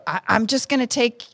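imitating an officer, slow and measured; slow it down to calm a flustered driver; talking real slow. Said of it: "he's talking to me real slow".

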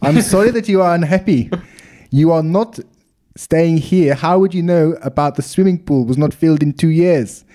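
put-on lightly done South African accent, rolled R's. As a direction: read it as a South African hotel owner. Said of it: "can I do it in South African accent".

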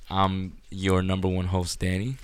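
slow, proud host intro; grand entrance announcement. Acted. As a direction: announce yourself like a showman. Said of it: "You can't say number one".

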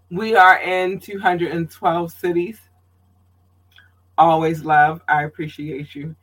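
winded, catching breath between words; breathless from talking nonstop. Real, not acted. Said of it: "I'm getting winded".

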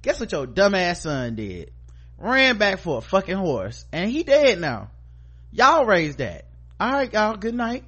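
building to a high, loud mock telling-off; blunt mock scolding. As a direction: rub the parents' faces in it. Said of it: "that's how I would've had to tell him".

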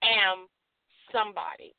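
slow, low, deliberate affirmation, lines spaced out; affirmation to repeat. Shown as a demonstration. Host leading listeners in self-affirmation, slow and low. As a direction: say it calmly so they can echo you. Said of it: "Repeat after me".

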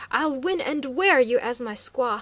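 loud, threatening snarl; savage threat. A narrator's reading. Chief savagely threatens to take the woman. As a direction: spit the threat at her. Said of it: "speaking in savage tones".

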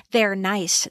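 lightly imitated movie punchline; Ducky impression. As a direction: deliver it as the quirky character does. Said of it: "That's how he says it".

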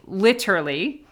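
"literally" said all out, every syllable sounded; British-style literally. Shown as a demonstration. Mother asking viewers about kids' slang, "literally" said all out. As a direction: spell out each syllable of "literally". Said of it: "they're saying literally and, like, saying it all out".

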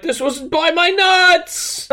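high, slow, laughing whine; a joking squeaky Mankind; mock Mankind. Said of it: "Mankind's like".

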